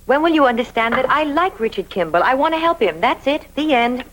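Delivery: insist, hammering out each short phrase to end it; exasperated insistence. Acted. Woman defends helping a man to her friend, exasperated. Exasperated retort in acted quarrel.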